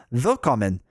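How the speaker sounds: lightly voiced German welcome; German accent. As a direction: greet with a touch of German. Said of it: "oh, they're German".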